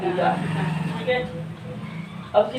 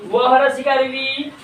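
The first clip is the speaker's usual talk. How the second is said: slow, measured व हरस इकार वी; spelling drill; slower than usual. Shown as a demonstration. Teacher has pupils repeat the spelling, slow drill. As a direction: lead the class through it, drawn out. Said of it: "बोलिए".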